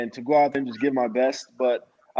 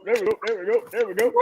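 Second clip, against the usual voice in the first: excited; 7 semitones higher, much faster than usual. Real, not acted. Cheering a bingo win.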